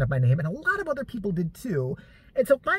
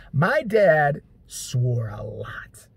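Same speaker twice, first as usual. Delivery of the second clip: unvoiced, slow whispered aside; a slow hushed aside; 4 semitones lower, much slower than usual. Real, not acted. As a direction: whisper it like a confession. Whispered aside about swearing.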